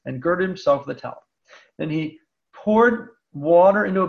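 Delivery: scripture reading. Acted. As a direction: read the passage to the class, unhurried. Reads the Gospel passage aloud.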